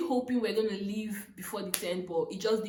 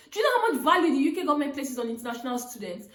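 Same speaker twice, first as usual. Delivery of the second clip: fast, laughing retelling; 4 semitones higher, 5 dB louder, faster than usual. Retold or imitated. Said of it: "It was just me all laughing".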